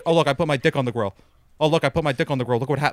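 party guest calling out his joke to everyone; mock loud bragging. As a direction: imitate a guy showing off to the crowd. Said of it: "he kept repeating it so people could hear it".

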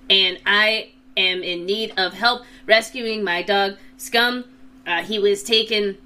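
reading a note. Acted. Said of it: "he opens it up and he says".

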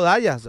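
"Díaz" as DYE-as; anglicized pronunciation. Shown as a demonstration. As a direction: pronounce "Díaz" with "eye", not "ee". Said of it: "había que pronunciarlo".

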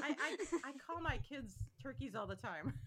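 amused confession through laughter; laughing. Real, not acted. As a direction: say it while laughing. Laughing over the turkey nickname.

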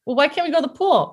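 lightly voiced child's protest; complaining child. Child asks mother about the pool, mock complaint.

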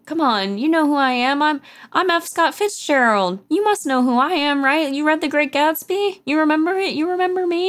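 put-on high, slurred drunken pleading. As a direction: beg strangers to recognize you, tipsy. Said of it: "going around drunkenly telling strangers".

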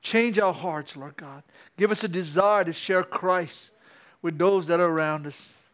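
slow, earnest closing prayer. Acted. Pastor praying over the congregation, slow earnest prayer. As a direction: pray over them, slowly.

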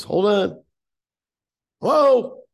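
high, loud put-on operator voice; switchboard woman. Switchboard woman putting the caller through, high imitation. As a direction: imitate an operator calling down the line. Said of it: "She goes".

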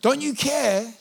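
venting at God, pushing harder each line; frustrated plea to God. Retold or imitated. Pastor venting to God about his disappointed hopes, building to a shout. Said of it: "This is familiar language for me".

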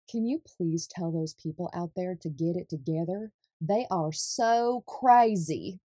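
a modest attempt at a Southern grandmother's accent, stretching the last words. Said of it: "attempt at a Southern accent".

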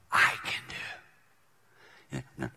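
very slow hushed words; slow whisper. Real, not acted. Pastor closing the point, slow whisper. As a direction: breathe it out slowly. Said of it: "whispered slow ending".

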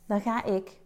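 words right after a sip of water; while sipping a drink. Real, not acted. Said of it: "Even een slokje water".

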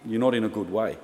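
level, sober imitation of a lifesaver; understated grave warning, retold; serious. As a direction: drop the jokes and warn them plainly. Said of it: "to serious guy, real quick".

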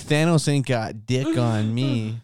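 high, slow swaggering brag; mock boasting. Teasing co-host about mind stone, mock boasting.

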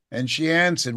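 usual speaking voice

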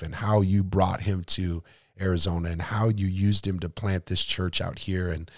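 earnest spoken pastor's prayer. Real, not acted. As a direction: pray over him sincerely. Closing prayer for the guest.

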